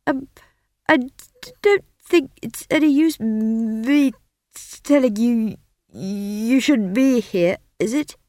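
high, halting stammer; nervous young wizard stammering; stuttering young wizard. Acted. Simon speaks to Esk.

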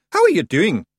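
high, loud Scots greeting; cheerful. A narrator's reading. Rob greeting the ferryman, cheerfully. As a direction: hail him brightly as an old pal. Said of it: "said Rob Anybody cheerfully".

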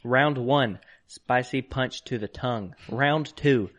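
slow, punchy boxing announcer read. Acted. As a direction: call out each round like a ring announcer. Reads boxing rounds off package.

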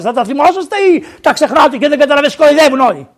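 high, loud rebuking sermon voice; indignant preacher at full force; fiery preaching. Acted. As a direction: scold the flock from the pulpit, building heat. Priest scolds congregation, rising.

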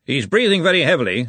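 lightly voiced loud arch-chancellor; Ridcully's voice. A narrator's reading. Ridcully examines the snoring librarian, lightly voiced, loud. Wizard leader's remark over snoring patient.

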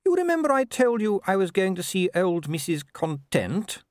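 high-pitched wife broaching a subject; Sybil. A narrator's reading. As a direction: lead into it in a high, lilting voice.

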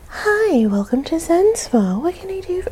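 high-pitched mock spa receptionist; mocking behind back. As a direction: imitate a high, syrupy spa greeting voice. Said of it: "whisper customer service voice".

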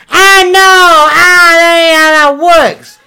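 high, loud outburst; exasperated shout. Acted. Pastor shouting at his friend about consent. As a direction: throw it up in frustration, shouting.

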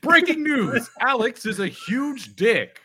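high, punchy news anchor opener; newscaster voice. Pretend. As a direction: announce like breaking news. Mock breaking news again.

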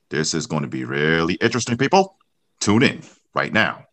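mock news bulletin read; lightly voiced broadcast intro; old radio announcer. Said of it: "can you cue up the sound effect".

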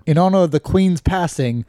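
amateur mock-British announcement; shaky British accent attempt. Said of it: "how to do a British accent".

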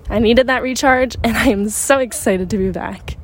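a little winded while walking; breathy from walking outdoors; out of breath. Real, not acted. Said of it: "sound like I'm out of breath".

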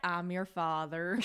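slow, laughing Texas drawl; slow southern drawl; Matthew McConaughey. Retold or imitated. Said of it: "your accent is Matthew McConaughey".

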